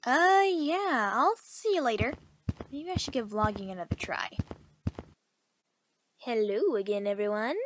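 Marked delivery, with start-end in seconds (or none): 2.7-4.3 whisper. Acted. Muttering to herself alone.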